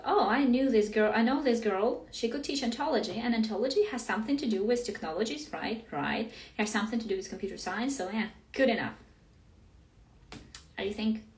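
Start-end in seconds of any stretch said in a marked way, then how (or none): 0.0-8.9 lightly mocking voice of hasty planners; lively, offhand mock reasoning; imagined organisers' reasoning. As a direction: act out someone talking themselves into it. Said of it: "and they thought".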